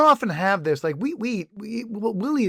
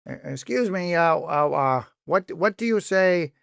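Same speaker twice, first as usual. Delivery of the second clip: reporter voice. Retold or imitated. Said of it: "he's putting on his reporter voice".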